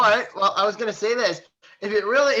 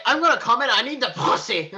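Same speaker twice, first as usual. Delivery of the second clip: John Goodman; 4 semitones higher than usual. Retold or imitated. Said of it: "he's like".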